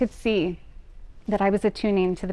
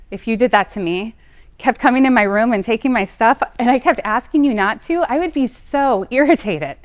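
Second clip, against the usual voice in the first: higher, louder, building empathic frustration; mock irritation; 4 semitones higher, 7 dB louder than usual. Mother mirroring her daughter's frustration, mock irritated. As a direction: show the child how annoying that would feel.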